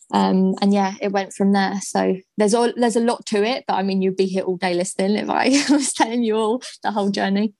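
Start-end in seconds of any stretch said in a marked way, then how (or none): 5.2-7.5 laughing lightly through the words. Real, not acted. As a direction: let a small chuckle into the sentence. Light laugh while wrapping up.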